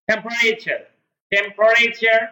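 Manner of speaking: "temperature" as tem-pre-cher, repeated distinctly; correct pronunciation. Shown as a demonstration. Teacher drills the correct word for students, "temperature" in three syllables, tem-pre-cher. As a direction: drop the middle vowel in each "temperature". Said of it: "এটাই হচ্ছে correct উচ্চারণ".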